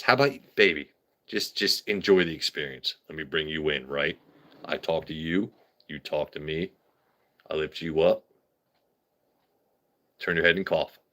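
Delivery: soft, low, intimate murmur; mock seductive.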